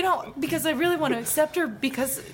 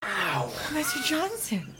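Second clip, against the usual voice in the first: slow pained voice through a hurt nose; smashed nose; 3 semitones lower, 5 dB quieter, slower than usual. Acted. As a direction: talk like your nose is broken. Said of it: "Smashed my nose".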